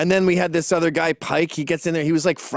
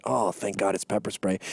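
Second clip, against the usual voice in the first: relieved; 8 semitones lower, 6 dB quieter than usual. Retold or imitated. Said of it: "and I went".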